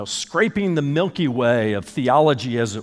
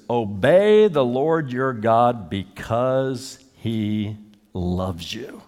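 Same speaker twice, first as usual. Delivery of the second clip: slow earnest quote; 2 semitones lower, much slower than usual. Acted. Quoting Moses slowly.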